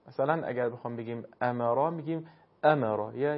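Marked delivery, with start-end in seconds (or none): 1.4-3.4 "امرا" with a sharp, struck hamza at the start. Shown as a demonstration. Teacher showing how hamza is struck in "امرا", sharp onset. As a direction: hit the first sound of "امرا" crisply, unstretched.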